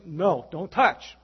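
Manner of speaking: slow, loud warning; mock mother scolding a child; a mother catching a child at the cookie jar, slow firm warning; stern mommy. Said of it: "Mommy comes and says".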